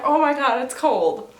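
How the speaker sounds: shocked. Retold or imitated. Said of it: "I'm like".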